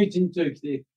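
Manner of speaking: gentle, reflective echo of the phrase. Shown as a demonstration. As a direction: let it settle quietly the second time. Repeats key phrase, softer.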